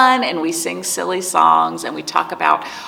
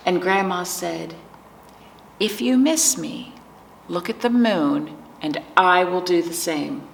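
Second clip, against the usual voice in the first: picture book narration. A narrator's reading. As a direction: read it to preschoolers, lingering on key words. Reads picture book to children.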